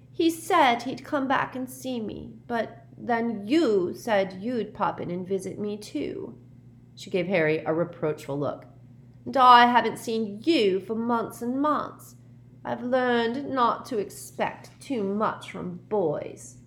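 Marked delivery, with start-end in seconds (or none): 0.1-6.4 put-on high, slow, reproachful girl's voice; moody ghost girl. A narrator's reading. Myrtle reproaching Harry for not visiting, moody. 9.3-16.6 put-on high, slow, reproachful girl's voice; moody ghost girl. A narrator's reading. Myrtle reproaching Harry for not visiting, moody.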